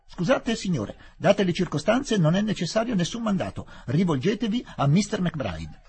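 high, anxious official voice, slowing at the end; nervous police inspector. Acted. Inspector refusing to explain to Fielding, high and anxious. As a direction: hide behind orders, nervously.

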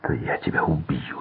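soft, dull-voiced warning; muffled threat. A narrator's reading. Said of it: "глухим голосом".

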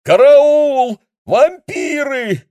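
визгливый, очень высокий громкий вопль; завопи в панике. Acted. Линь в панике кричит. (Линь вопит в панике, визгливо и громко)

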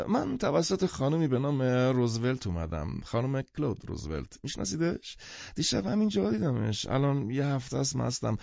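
lightly voiced rambling drunk; chatty, a touch tipsy; half-drunk man. Half-drunk man explains why he came, lightly tipsy.

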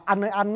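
"anh ơi anh" with "anh" drifting toward "ăn"; Southern or Central pronunciation. Shown as a demonstration. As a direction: imitate a Southerner saying "anh" nearly as "ăn". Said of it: "gốc từ Nam hay từ Trung mà hát mà nói là".

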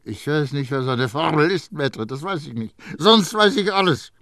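a hint of a pressed, rasping youth; Grenouille's pressed voice. A narrator's reading. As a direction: squeeze the words out. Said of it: "gepresste Stimme von der Tür her schnarrte".

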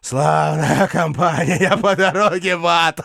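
raving madman, high and shrill; seething shrieking spirit. Acted. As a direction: rant high in mad defiance. Raving knight facing fire.

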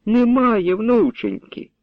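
put-on high, slow keening for the lost girl; wailing lament. A narrator's reading. Grandmother wails over her missing granddaughter. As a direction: draw the grief out as a folk lament. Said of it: "Не скигли".

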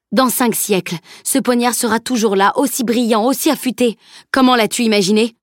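lightly voiced master rising in worry; old master, alarmed.

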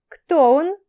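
high, loud teasing question; sly curious question. Acted. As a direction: pounce on it like a pleased cat. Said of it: "прищурилась, как сытая и довольная жизнью кошка".

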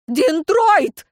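high, loud name called out; shouting. A narrator's reading. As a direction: call the rider's name loudly. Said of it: "закричал Элихард". (громкий выкрик)

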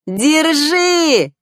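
a small fish shouting "here!"; eager little fish voice. A narrator's reading. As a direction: Flounder handing over the card from the water. Fish Flounder calls out.

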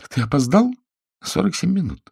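high, trembling reproach to her husband; a wife's voice shaking with hurt; wife scolding late husband, voice trembling. A narrator's reading. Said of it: "Голос её дрожал".

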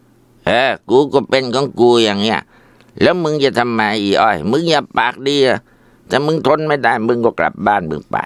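husband snarling back at his wife; defiant. Acted. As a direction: sneer back at her.

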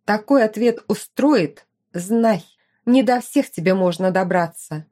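slow, steady warning; measured warning to a rival; serious threat. Acted. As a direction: say it coldly and slowly. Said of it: "стало серьёзным".

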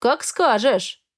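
slow, sly, with a grin; a drawn-out cunning "as you wish". A narrator's reading. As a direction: savour it like a trap closing. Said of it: "Коварно оскалился он".

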